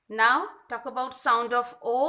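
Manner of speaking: slow, loud and deliberate; teacher introducing the next sound; slow announcement. Shown as a demonstration. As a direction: announce the vowel slowly for children. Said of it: "announces the next vowel".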